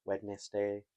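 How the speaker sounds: Wednesday said as "Wed-nes-day"; "Wednesday" in three syllables, d pronounced; spelling pronunciation. Shown as a demonstration. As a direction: sound out every written syllable of Wednesday.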